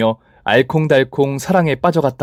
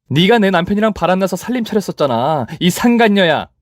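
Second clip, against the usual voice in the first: higher contemptuous accusing; scornful accusation; 6 semitones higher than usual. Acted. Narrator accuses rival. (경멸하며 따지는 말투)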